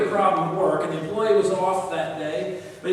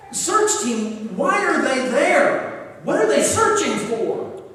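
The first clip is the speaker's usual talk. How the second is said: alarmed; 4 semitones higher, 4 dB louder, slower than usual. Retold or imitated. Boss alarmed on phone.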